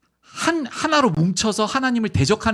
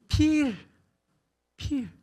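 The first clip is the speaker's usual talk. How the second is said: Adam naming the elephant; 10 semitones higher than usual. Acted.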